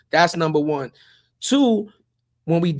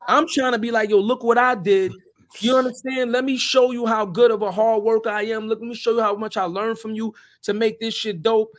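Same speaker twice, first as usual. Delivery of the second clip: heated and raised; 5 semitones higher, 3 dB louder than usual. Real, not acted. Emphatic account of trying to impress.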